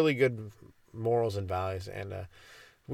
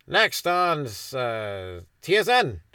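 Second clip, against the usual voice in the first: announcer voice; 3 dB louder, much slower than usual. Pretend. Mock sports announcer intro.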